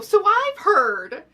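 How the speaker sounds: loud, high, drawn-out proclamation; mock bold greeting. Girl showing up at the possessed girl's work, loud. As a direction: announce it grandly and slowly. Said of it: "show up at her work and go".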